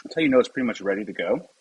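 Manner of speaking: talking with a mouthful of food; chewing while talking; mouth full. Real, not acted. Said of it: "I'm sorry, I was talking with my mouth full".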